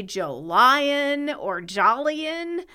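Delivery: slow, deliberate misreadings of "Jolion or Jolien"; mispronouncing Jolien. Retold or imitated. Host quotes people misreading a friend's name, deliberately mispronounced "Jolion or Jolien". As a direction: imitate readers tripping over the name, drawing out "Jolion or Jolien". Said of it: "people got tripped up reading it".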